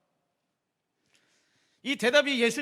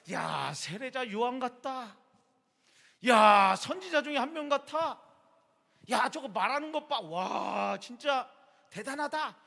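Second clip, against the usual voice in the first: slow, awed chatter, a bit higher; crowd gossip; 4 semitones higher, slower than usual. Retold or imitated. Onlookers gossiping about Jesus' miracles, awed.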